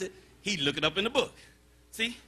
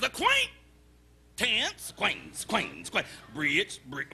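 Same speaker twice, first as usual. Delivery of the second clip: looking it up; slower than usual. Acted. Forgetful man looking up acquaintances.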